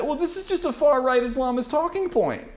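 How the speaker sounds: high whiny parody, laughing through it; mocking opponent. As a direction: mimic the critic's dodge with a laugh. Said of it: "And now you say".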